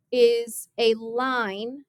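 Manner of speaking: LINE drawn out slowly for emphasis; stress on LINE. Shown as a demonstration. Teacher defines a tangent line for the class, stressing LINE. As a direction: lean on the word LINE, stretching it. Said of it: "emphasis on line".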